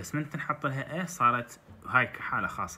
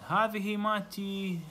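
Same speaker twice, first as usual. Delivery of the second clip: mock excited shout; 6 semitones higher than usual. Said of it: "باسم قام يصيح".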